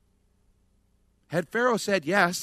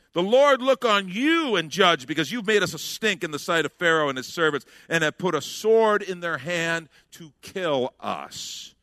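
bitter accusation. Acted. People accuse Moses.

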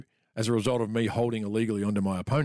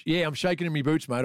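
sarcastic and a little higher; 5 semitones higher than usual. Retold or imitated. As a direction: say it with mock bravado. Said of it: "the sarcastic tone belying my genuine fear".

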